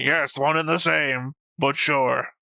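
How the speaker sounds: slow, lofty, mock-casual brush-off; teasing the co-host by copying his dismissive answer, slow and mock-lofty; mock dismissive reply. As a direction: parrot your partner's lazy concession, drawn out. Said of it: "and just say".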